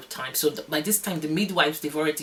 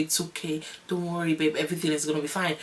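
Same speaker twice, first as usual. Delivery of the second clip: soft, mild comforting husband; quietly retold comfort; imitated reassurance; 4 dB quieter than usual. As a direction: quote a partner gently soothing. Husband comforting her during labor.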